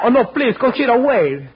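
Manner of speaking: very high, loud pleading cry; desperate call. Acted. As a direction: call after her in desperation. Calls after departing lover.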